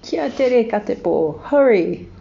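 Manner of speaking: high, loud hurry-up call; urgent call. A narrator's reading. Kiwi urging friend to hurry.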